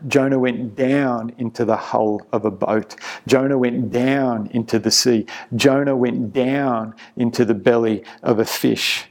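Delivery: down leaned on in each line; stress on down. Shown as a demonstration. Preacher to congregation, stressing down each time. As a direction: keep landing on the word down. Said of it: "I tried to emphasize the word down".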